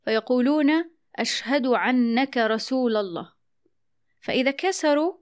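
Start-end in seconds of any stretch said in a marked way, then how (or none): 1.2-3.3 slow, عنك opening on ayn for hamza; an'ana dialect. Shown as a demonstration. Host shows how Quraysh said it, an'ana dialect. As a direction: pronounce عنك with ayn where annaka is meant. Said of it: "يجعلون ألف أن المفتوحة عين".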